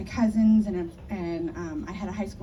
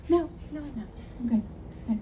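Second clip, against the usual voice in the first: higher quick denials; Jamie brushing off; 4 semitones higher, faster than usual. Retold or imitated. Jamie denies labor to her friend, breezy. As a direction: wave it away.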